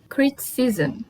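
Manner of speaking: criticism ending in "zam"; English criticism. Shown as a demonstration. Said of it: "se lê zam".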